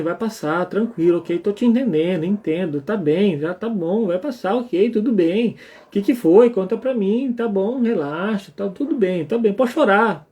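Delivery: put-on calm a crying child gently; soothing parent. Shown as a demonstration. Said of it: "É esse o clima".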